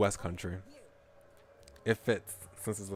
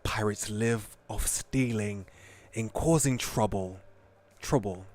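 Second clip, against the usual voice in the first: indignant West Country ship captain, louder; West Country accent; 4 dB louder, slower than usual. Acted. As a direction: West Country captain setting the record straight. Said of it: "West Country accent".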